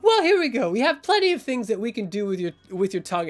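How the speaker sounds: starts high and loud, then settles; theatrical villain showing off; gleefully menacing enforcer. Acted. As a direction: taunt him with sing-out opening words.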